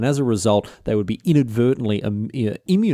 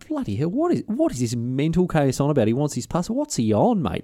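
raised, incredulous milkmaid voice, pitched higher; Sarah's baffled inner voice; 4 semitones higher than usual. Retold or imitated. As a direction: play her thinking he's gone mad, voice up high. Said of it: "looking at him like he's bonkers".

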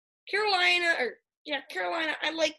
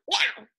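cat meow. Pretend. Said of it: "We gotta do the Panthers dance".

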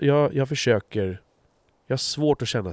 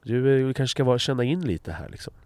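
gentle correction; 3 semitones higher than usual. Retold or imitated. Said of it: "någon som rättar och säger".

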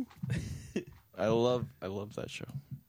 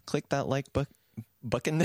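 jumbled syllables; 4 semitones higher than usual. Real, not acted. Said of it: "You're doing spoonerisms".

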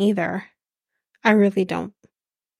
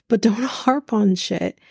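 "don't" broken by a laugh, a bit slower; laughing repeat; slower than usual. Shown as a demonstration. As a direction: chuckle through the "don't harp on shit" line. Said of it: "harps on shit himself".

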